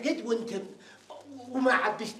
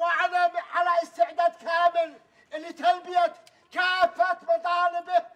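protest speech; 3 semitones higher than usual. Acted. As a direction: declaim demands like a rally speech, higher-pitched. Hunger striker declaims demands to everyone.

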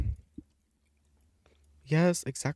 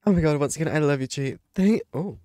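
loud happy outburst; excited cheer; 6 semitones higher, 6 dB louder than usual. Real, not acted. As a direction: cheer like you just won. Wins, excited.

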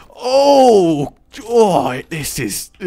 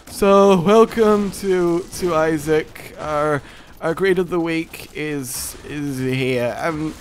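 mock-sad commentator, higher at times; mopey commentator; 3 semitones higher than usual. Imagined sad commentator introducing the week, mock gloom. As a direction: play a gloomy host sighing through it. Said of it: "commentator came on and was just like".

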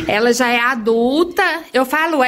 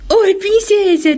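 squeaky high pet talk; 8 semitones higher, 3 dB louder than usual. Real, not acted. Cooing to the bird.

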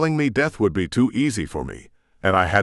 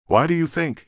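sharp, curt comeback, pitched higher; bitten-off retort; 8 semitones higher than usual. A narrator's reading. Demon blacksmith to a self-punishing guard, sharp and curt. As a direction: bite the words off in annoyance. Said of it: "he bit off".

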